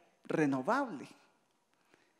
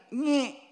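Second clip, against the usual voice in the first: drawn-out imitated pinch squeak; pinching noise; 5 semitones higher than usual. Husband pinching his wife here, imitated drawn-out squeak. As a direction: make a slow noise for a pinch. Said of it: "a pellizcarla acá, a hacerle".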